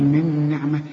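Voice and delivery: من نعمة with a merged, held nun; tajweed demo. Shown as a demonstration. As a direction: say من نعمة with the nun run into the next. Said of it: "تستعملش فيها لسانك إلا إذا جت بعدها نون".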